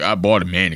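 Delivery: super-macho, very deep, manly voice. Reacting to a clip, imitating the guest's voice: imitating a very manly voice. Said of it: "the manliest voice".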